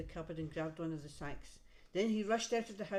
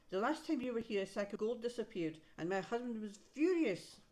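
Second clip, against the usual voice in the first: wife scolding; 4 semitones higher, 3 dB louder than usual. Acted. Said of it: "she told him".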